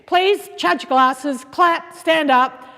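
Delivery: grand showbiz host voice, high and loud; breathy vintage purr. Acted. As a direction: introduce the star like an old-time host. Host introduces guest grandly.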